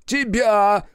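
high, sudden threatening cry; angry outburst. Acted. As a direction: throw the word at him as you attack. Grabs Buton by the throat.

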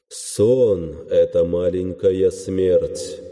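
slow, slightly mocking ethereal voice; an unearthly dead god, faintly amused; mocking otherworldly god voice. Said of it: "чуть насмешливый и какой-то потусторонний голос мёртвого бога".

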